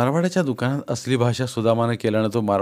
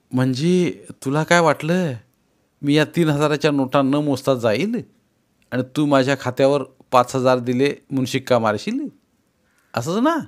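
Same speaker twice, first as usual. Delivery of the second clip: angry challenge; 3 semitones higher than usual. Acted. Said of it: "हाताची मूठ त्याच्या टेबलावर आपटत".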